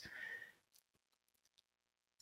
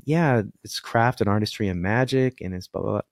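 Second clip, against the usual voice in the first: switched-off voice. Shown as a demonstration. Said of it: "if I just turned it off".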